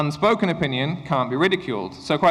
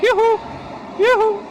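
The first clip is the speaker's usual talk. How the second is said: calling out. Real, not acted. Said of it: "calling out to silent class".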